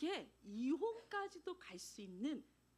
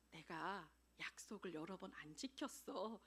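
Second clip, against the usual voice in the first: meek admission; 7 semitones lower, 6 dB quieter than usual. Retold or imitated. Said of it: "인정을 했어요".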